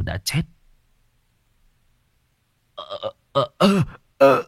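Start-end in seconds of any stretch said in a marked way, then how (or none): 2.7-4.4 short, choked "uh" sounds; stunned stammering groans. A narrator's reading. Village chief frozen by the corpse's touch, stammering groans. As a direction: stutter out wordless, shocked grunts.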